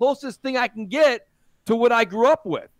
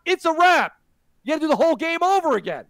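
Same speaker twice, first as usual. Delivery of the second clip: loud sharp voice; 5 semitones higher than usual. Real, not acted. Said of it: "please stop shouting".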